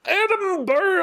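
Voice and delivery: high, drawn-out Scottish Edinburgh; Scottish accent. Shown as a demonstration. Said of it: "Can you say Edinburgh in a Scottish accent?".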